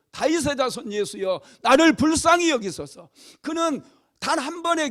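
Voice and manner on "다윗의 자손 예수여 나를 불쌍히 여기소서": pleading shout rising to high and loud; beggar's raised-voice plea; crying out. Acted. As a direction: call out for mercy, building in force. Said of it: "소리를 지르기 시작했어요".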